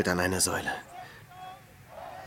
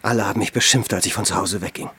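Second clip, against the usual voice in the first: bitter outburst; 2 semitones lower, 5 dB louder, faster than usual. Acted. Hermit recalling his departure.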